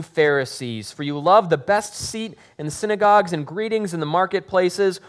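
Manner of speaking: steady, earnest Bible reading to the congregation; scripture reading. Acted. Pastor reading the gospel aloud to the congregation, earnest. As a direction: read the passage aloud with weight.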